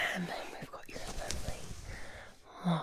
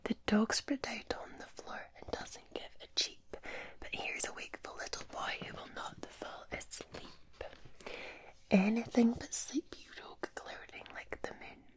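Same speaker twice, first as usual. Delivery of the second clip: rhythmic bedtime recitation in a whisper; whispered nursery rhyme. Pretend. Reading a Scottish bedtime rhyme to the viewer, whispered.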